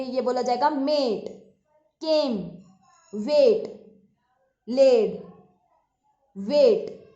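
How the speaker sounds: each word spoken out for the class to echo; मेट केम वेट लेड वेट said clearly; repeat-after-me demo. Shown as a demonstration. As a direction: model the long ay vowel. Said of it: "मेरे साथ बोलेंगे".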